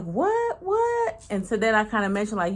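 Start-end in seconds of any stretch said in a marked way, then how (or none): 0.0-1.2 very high squealed what; excited disbelief. Retold or imitated. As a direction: squeal it high, eager for gossip. Excited reaction again.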